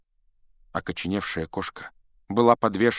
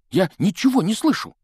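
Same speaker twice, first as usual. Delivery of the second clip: loud frustrated cry; 12 semitones higher, 6 dB louder than usual. Acted. Ron running, frustrated.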